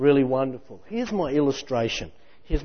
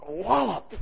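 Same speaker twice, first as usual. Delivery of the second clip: mock tackle sound; 5 semitones higher, 4 dB quieter than usual. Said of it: "Parker going".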